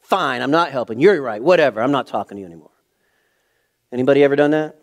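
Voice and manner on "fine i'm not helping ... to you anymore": louder, sulky fine-whatever; angsty huffy stop. Retold or imitated. Dad mimicking a sulky angsty quitter, loud huffy tone. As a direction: storm off in a sulk. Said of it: "not like an angsty person will stop".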